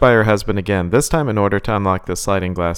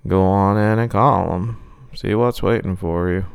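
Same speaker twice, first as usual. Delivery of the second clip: creepy clown taunt. Acted.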